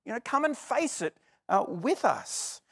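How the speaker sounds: high, loud panicked cry to a sleeping man; panicked shout. Retold or imitated. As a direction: yell at him to wake up, terrified. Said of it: "What they're more interested in is".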